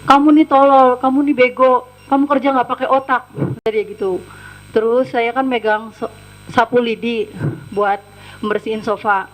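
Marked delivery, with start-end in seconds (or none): 0.1-3.3 loud, scornful retold abuse; retold insults. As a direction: bark the insults like the angry boss. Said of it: "mengucapkan kata-kata kasar seperti".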